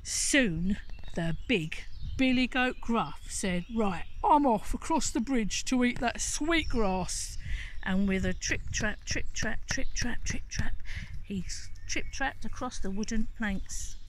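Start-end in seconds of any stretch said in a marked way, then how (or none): 3.7-7.4 big goat. Acted. 9.1-10.8 hoof clatter. Acted. Hoof sound effect.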